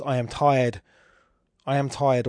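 "tired" stressed after two light words "I am"; anapestic stress on TIRED. Shown as a demonstration. Lecturer showing students an anapest, stress on "tired". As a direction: lean on "tired", keep "I am" light. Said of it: "obviously, is an anapest".

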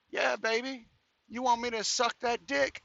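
teasing mock seduction; mock come-on. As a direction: lightly put on a woman's solicitation. Imitates woman propositioning him.

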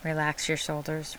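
soft and settled instruction. Shown as a demonstration. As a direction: let it drop, gently. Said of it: "Really relax them this time".

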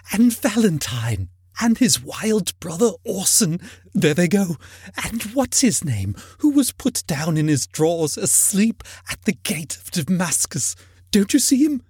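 put-on high, excited old man's reminiscence; between laughing and crying. A narrator's reading. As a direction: pour it out in earnest, high-pitched delight. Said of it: "extraordinary voice between laughing and crying".

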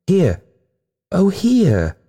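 high, acted sobbing call; sobbed cry. A narrator's reading. Weakened ghost on the stairs, calling with an acted sob. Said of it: "she sobbed".

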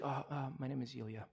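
soft, hesitant imitation of the boy; retold meek answer. Yelling kid gone silent after prayer, retold meek answer.

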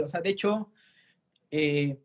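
hiccuping mid-sentence; talking through hiccups. Real, not acted. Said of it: "perdón, estoy con hipo".

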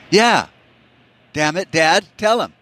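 put-on high-pitched, loud child whining to a parent; demanding kid. Kid appeals to dad in a squabble, high and insistent. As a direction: pipe up high, pressing dad to take your side.

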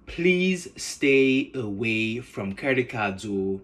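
slow, pleading mother; lightly voiced Nigerian mom begging, drawn out; mother warning her son before college, slow and earnest; mother's warning. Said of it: "as she exclaimed".

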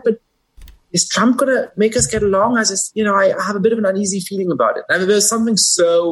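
high, hammed-up voice of a working-class Jersey guy; Jersey comedian's guy. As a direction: pitch it way up as the comedian's everyman. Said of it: "I'm not trying to do the accent".

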